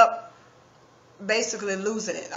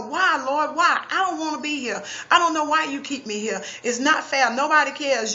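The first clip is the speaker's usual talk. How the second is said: raised, higher anguished protest; hollering; 5 semitones higher than usual. Retold or imitated. Woman in the dark hollering her despair at God, raised and anguished. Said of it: "I'm hollering".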